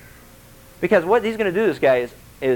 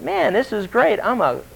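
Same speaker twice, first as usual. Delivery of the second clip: lightly voiced cocky king, higher; mock self-congratulation, pitched up; self-admiring king; 5 semitones higher than usual. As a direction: brag like a king pleased with himself. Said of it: "he looked over and going".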